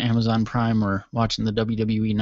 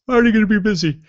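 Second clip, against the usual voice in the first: cheerful; 9 semitones higher, 7 dB louder, much faster than usual. Retold or imitated. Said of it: "which I'm like".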